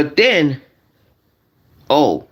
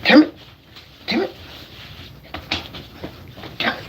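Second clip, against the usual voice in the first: mock frustrated curse; 9 semitones higher, 7 dB quieter, much faster than usual. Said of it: "guys, I'm gonna show you".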